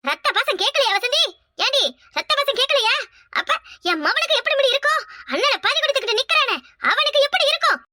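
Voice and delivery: high, anguished lament; grieving outcry. Acted. Grieving mother pleading with her daughter Vasanthi, anguished. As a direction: wail over her son's fate.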